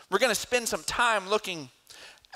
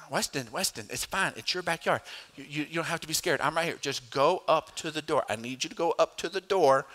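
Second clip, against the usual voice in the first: reassuring dad; faster than usual. Retold or imitated. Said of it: "And I was like".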